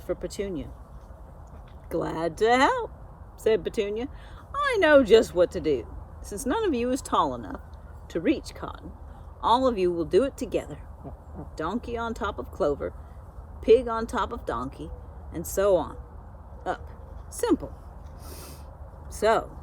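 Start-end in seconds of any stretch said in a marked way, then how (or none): 1.9-2.9 bossy know-it-all goose. Acted. Petunia answers the friends. 4.5-17.7 bossy know-it-all goose. Acted. Petunia orders animals to stack.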